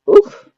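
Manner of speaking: loud, high puff of emotion; sharp exhaled oof, overcome by the memory; real wordless burst of feeling; overwhelmed oof. Real, not acted. Overcome recalling the birth.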